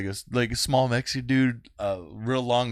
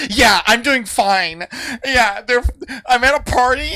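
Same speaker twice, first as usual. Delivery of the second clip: imitated little girl; 11 semitones higher, 5 dB louder than usual. Small girl chatting with imaginary cops, high imitated kid voice. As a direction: play a child making phone small talk.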